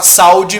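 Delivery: "sal de" run together as SAU-de; no separate U in "sal de"; wrong diphthong. Shown as a demonstration. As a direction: say "sal de" as two syllables, sau-de. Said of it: "como é que seria a pronúncia?".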